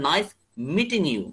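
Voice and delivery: "meeting" with a true t, British style. Shown as a demonstration. Teacher contrasts with American, "meeting" with a British t. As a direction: keep the t in "meeting" a t, not a d. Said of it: "আর ব্রিটিশরা বলবে".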